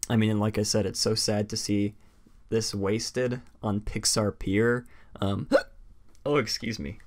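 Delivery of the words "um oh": hiccuping mid-sentence; hiccups. Real, not acted. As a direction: catch a hiccup, then carry on. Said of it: "I have the hiccups".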